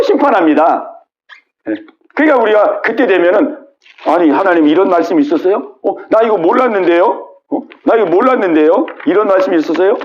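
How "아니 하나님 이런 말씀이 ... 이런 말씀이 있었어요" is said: acted puzzled protest, questions rising; making excuses. People before God's judgement claiming ignorance, making excuses. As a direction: plead ignorance with rising endings. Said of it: "이렇게 핑계 댈 수가 없어요".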